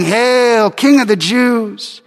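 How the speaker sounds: mild mock salute, slowing on king; taunting. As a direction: sneer out the soldiers' taunt.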